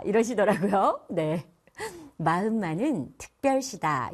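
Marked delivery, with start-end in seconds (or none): 2.2-4.1 특별시다 with a clear 으 vowel, not 어; correct 의 in 특별시다. Shown as a demonstration. Teacher models the correct 특별시다 with 으. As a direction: say 특별시다 properly with 으. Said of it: "이죠".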